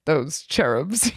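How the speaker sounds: put-on slow, light Cockney accent. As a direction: drawl it like a Cockney policeman. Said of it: "I don't wanna do the Cockney accent, but he kept being like".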